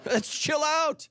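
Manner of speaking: a hint of a laid-back Australian, slow and high; lightly voiced Australian sat-nav easing off; Australian car voice. Pastor imitates his Australian car voice, lightly laid-back Australian. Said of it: "a female from Australia".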